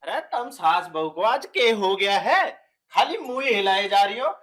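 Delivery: loud exasperation. Acted. Cotton in ears, thinks they mime.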